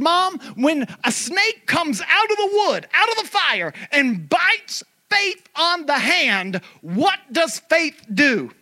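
high, urgent pulpit question; preaching. Real, not acted. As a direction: drive the question home, stretching the ending. Preaches the question at full force.

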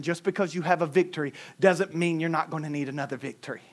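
ordinary talk

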